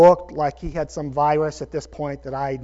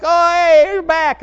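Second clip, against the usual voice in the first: high, bright-pitched mock surprise; raised, louder oh hey; surprised greeting; 11 semitones higher, 7 dB louder, slower than usual. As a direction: greet him like staff caught off guard. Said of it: "They're like".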